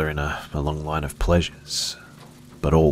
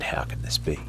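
weeping; 6 dB quieter than usual. Acted. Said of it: "She wept and said".

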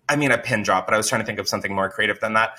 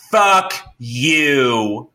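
drawn-out mock yell, only mildly louder; retold scream; 3 dB louder than usual. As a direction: imitate an engineer yelling at the boss. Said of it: "screaming in front of everyone".

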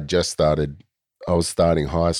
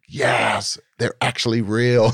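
higher, put-on voice of a kid showing off; mock proud kid; 6 semitones higher, slower than usual. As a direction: pretend the fake labels are real, chuffed. Retelling kid's pride in fake labels.

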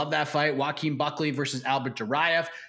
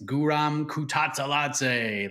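slow, drawn-out ring announcer call of Guram Kutateladze; much slower than usual. Shown as a demonstration. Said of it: "you just have to say it like a ring announcer".

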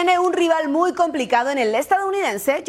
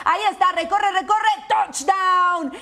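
touchdown call; 3 semitones higher than usual. Acted. Play-by-play touchdown run.

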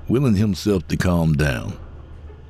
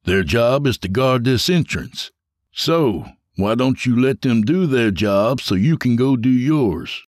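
a slightly higher, cocky guard-boss voice; James, smug and taunting; 5 semitones higher than usual. Acted. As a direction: talk down to him with a smirk.

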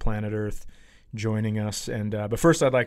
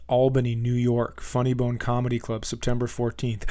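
bent over, squashed lungs; 2 semitones lower than usual. Real, not acted. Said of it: "part of my body is crushing my lungs".

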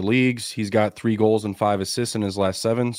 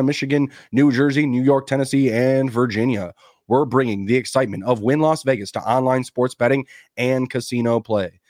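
ad read; 2 semitones higher than usual. Acted. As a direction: sell it like a radio spot. Sponsor ad read.

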